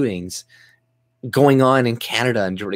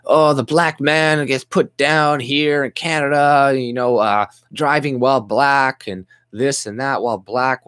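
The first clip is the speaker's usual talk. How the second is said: mocking imitation; 5 semitones higher than usual. Vlogger parodies Canadian media voices, mocking whine. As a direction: parody them as if complaining, dragging it out. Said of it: "They're like".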